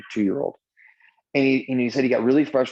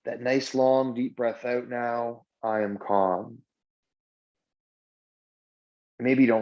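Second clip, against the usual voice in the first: guided meditation. Shown as a demonstration. Leading the class through a breathing mantra, guided meditation. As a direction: guide them gently through each breath, leaving long pauses.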